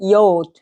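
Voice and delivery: "ইয়ট" drawn out on the vowel; "ইয়ট" as a stretched German letter name; letter-name demo. Shown as a demonstration. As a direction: sound out "ইয়ট" slowly for learners. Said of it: "বাংলিশে আমরা ইয়ট পড়তেছি".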